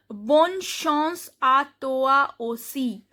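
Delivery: bonne chance à toi aussi read slowly as a model; French reading demo. Shown as a demonstration. Teacher reads a sentence for learners, slow pronunciation demo. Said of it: "I can read a sentence here".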